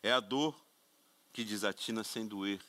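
theatrical reading of Camões; dramatic poetry recital. Shown as a demonstration. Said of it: "é o William Vac".

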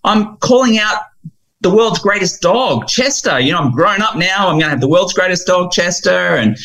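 put-on a proud eight-year-old boasting about his dream dog; eager young boy. Boy tells his grown self about Chester, high eager child voice. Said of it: "And he goes".

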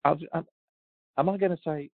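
ordinary talk

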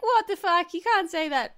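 high, loud mock outrage; retold indignation. Acting out a past outburst.

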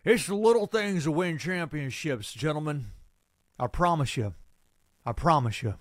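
a hint of a gruff football coach; lightly voiced coach drilling his players; Coach Brewer. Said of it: "my not-so-world-famous Coach Brewer impression".

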